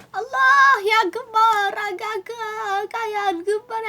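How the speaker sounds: high wail losing volume; fading fire panic. Pretend. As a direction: wail the alarm, trailing away.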